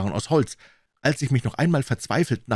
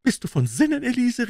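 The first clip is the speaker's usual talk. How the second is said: angry shout. Acted. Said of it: "rief er".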